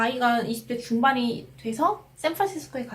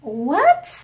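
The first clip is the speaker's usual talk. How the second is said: louder, sharply rising question; baffled what; 3 semitones higher, 5 dB louder than usual. Retold or imitated. Woman stranger still not understanding the station name, baffled. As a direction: imitate a stranger who still can't understand. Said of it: "그랬더니".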